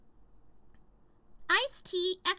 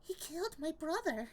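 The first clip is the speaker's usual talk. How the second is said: lightly voiced Tina character; mild character voice; a hint of the game character Tina; 5 dB quieter than usual. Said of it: "when I was doing the voice".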